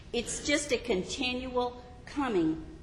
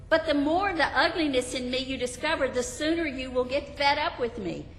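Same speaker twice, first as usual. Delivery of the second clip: anxious confessor; 6 semitones higher than usual. Acted. Believer pleads.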